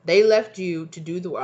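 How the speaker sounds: put-on loud burst of stray accent, WORK losing its R; unplanned accent. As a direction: belt it in an odd accent, "work" as "wah". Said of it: "I don't know where I got that from".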